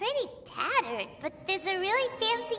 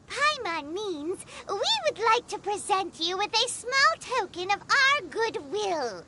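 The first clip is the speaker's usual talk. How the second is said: mock-formal courtesy. Corrects herself into courtly speech.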